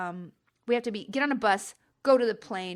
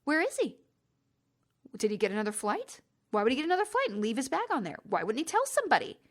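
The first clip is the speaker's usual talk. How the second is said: anxious wondering; 5 semitones higher than usual. Retold or imitated. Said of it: "all I'm thinking is".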